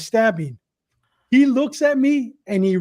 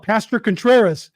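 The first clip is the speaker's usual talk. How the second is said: yelling; 3 dB louder than usual. Retold or imitated. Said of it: "He yells out".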